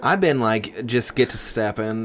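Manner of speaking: mock college girl chatter; lightly voiced college girl. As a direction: ramble like a put-on college girl. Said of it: "do your college girl voice".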